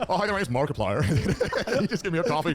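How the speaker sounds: a laughing, hammed-up Markiplier; Markiplier impression. Doing Markiplier for friends, giggling American accent. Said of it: "you just did a Markiplier impression".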